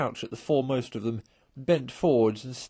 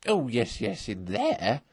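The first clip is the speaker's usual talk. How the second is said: impatient; slower than usual. A narrator's reading. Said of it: "said Toad impatiently".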